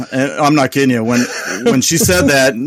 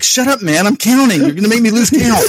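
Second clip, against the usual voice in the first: higher, half-laughing retold yell; mock yell; 5 semitones higher than usual. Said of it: "I yelled at him too".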